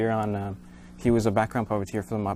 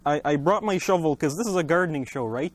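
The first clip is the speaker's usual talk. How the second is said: goofy muffled sock puppet; 4 semitones higher than usual. Acted. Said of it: "puppet voice".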